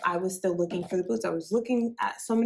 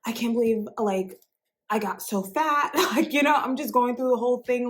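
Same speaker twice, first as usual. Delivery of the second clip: raised, anxious self-quote; mock despair about getting fat; retold freak-out; 4 semitones higher than usual. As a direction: replay the panic over the boots, pitched up. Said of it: "freaking out at this point".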